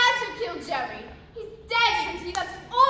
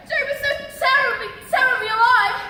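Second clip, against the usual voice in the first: overwrought lament; 4 semitones higher, 4 dB louder, faster than usual. Acted. Melodramatic lament for dead man.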